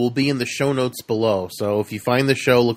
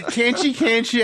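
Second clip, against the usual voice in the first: put-on Transylvanian accent; 9 semitones higher, slower than usual. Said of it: "I love her Transylvanian accent".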